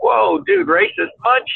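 high mock voice. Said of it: "I'm like".

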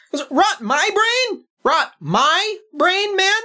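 high, mocking, taunting sibling; sneering brother. Brother Pep taunting the returning hero, high sneering voice. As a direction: needle him about being a hero.

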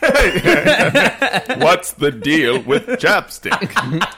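slow, drawn-out standup comic; hammed-up standup setup line. Standup comedian impression.

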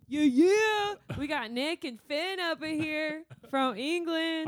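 high, loud put-on British-ish accent. Host greets the English listeners in a loud mock accent. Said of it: "gonna do your Cockney accent".

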